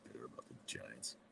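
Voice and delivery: a soft, low-pitched whisper to himself; whispered aside. Real, not acted. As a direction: drop to a whisper for a private grumble. Muttered aside about the Giants.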